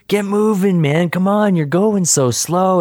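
high-pitched mock exasperation; impatient heckling. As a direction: imitate someone stuck behind a slowpoke, stretched whiny complaint. Impatient passer-by hurries slow walker.

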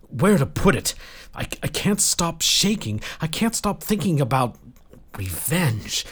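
high, halting, agitated confession; distraught rage. A narrator's reading. Lloyd confessing to Asha he's consumed by rage, distraught. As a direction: stumble over the words, overwhelmed, voice rising.

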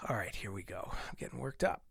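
whispered aside. Real, not acted. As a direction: hush it down. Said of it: "as you could hear".

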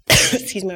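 real cough, then a husky "excuse me"; clearing a failing voice; voice giving out. Real, not acted. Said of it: "I'm losing my voice".

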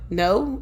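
"No" said like an unsure question. Retold or imitated. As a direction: lift "No" into a tentative question. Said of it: "Like, it was a question".

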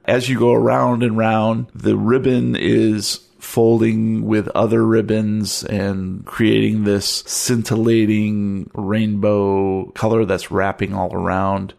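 slow, measured narration; game master's scene setting. Acted. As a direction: draw out the description of the scene.

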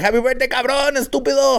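mock birthday insult. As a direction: greet a friend with a loving insult. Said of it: "It was like".

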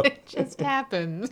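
slow, drawn-out robotic delivery; deliberate, stilted robot inflection. Real, not acted. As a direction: stretch the words out like a robot. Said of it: "A robot".

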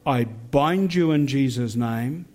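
firm renouncing prayer, slowed phrase ends; fierce commanding prayer. Shown as a demonstration. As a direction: command it with full conviction. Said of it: "let's pray a prayer together".

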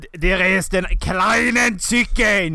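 slow, put-on German accent; hammed-up German action-star accent; mock German accent. Mock German accent about a chicken.

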